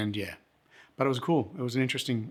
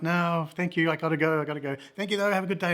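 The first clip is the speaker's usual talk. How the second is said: higher-pitched re-enacted farewell; polite excuse; 6 semitones higher than usual. Visitor excuses himself from the drinkers, high polite goodbye. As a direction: beg off politely, voice lifted. Acts out own hasty goodbye.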